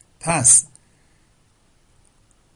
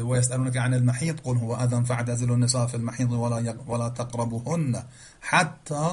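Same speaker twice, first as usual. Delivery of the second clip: Arabic verse intoned in tajwid style; تلاوت قرآن; Quran recitation. Acted.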